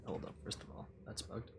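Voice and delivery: hushed unvoiced whisper. Real, not acted. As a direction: drop to a whisper. Aside to players off-mic.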